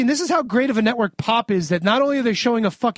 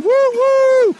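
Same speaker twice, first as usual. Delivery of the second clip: high, loud hammed-up woo woo; mock cheer; 14 semitones higher, 7 dB louder than usual. Host cheers the Maytag man's entrance, hammed-up loud whoop. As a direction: whoop like a fan in the crowd.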